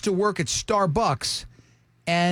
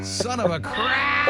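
frustrated shout; 5 semitones higher, slower than usual. Real, not acted. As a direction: yell it out in frustration. Caller misses the quiz answer.

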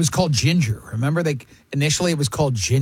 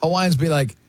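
ordinary delivery

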